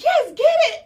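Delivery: very loud, high shouted order; high, hammed-up yell for it now; urgent eager demand. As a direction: act out desperate eagerness, half laughing. Retold urgent demand for the gas.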